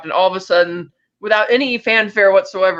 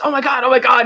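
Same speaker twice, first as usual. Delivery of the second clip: raised, higher imitation of panicked friends; a bit of hammed-up alarm; mock freaking out; 6 semitones higher, 3 dB louder than usual. Peter and Ned on the phone, mock panic. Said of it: "all they say to each other is".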